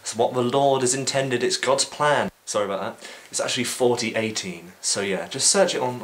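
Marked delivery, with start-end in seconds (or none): 0.0-2.3 mock smug shrug.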